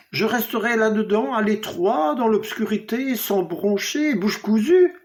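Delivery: acted outrage at being shut in; indignant protest. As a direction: protest in one rushed, mounting run. Fetus protests being kept captive.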